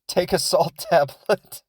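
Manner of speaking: a hint of a dismissive mother; mocking the mom. Mocking the mom brushing off her sick kid, lightly put-on. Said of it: "she's like".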